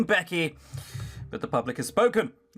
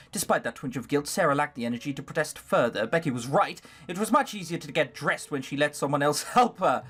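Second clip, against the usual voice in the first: measured storybook reading; story narration. A narrator's reading. Player reading Sarah's story aloud, story narration. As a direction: read the story out evenly.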